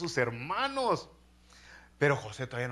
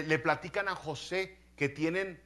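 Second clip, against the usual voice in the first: normal talking voice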